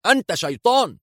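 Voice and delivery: high, frightened accusation; panicked, pitch up on شيطان; nervous cry. A narrator's reading. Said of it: "ثم هتف في عصبية". (صيحة مذعورة مرتفعة)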